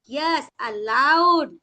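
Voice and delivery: yes aloud, slow, a falling push on aloud; stress on aloud. Shown as a demonstration. Teacher confirming the stressed word for the student. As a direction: linger on aloud and drop the pitch. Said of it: "तो emphasize कहाँ पे जा रहा?".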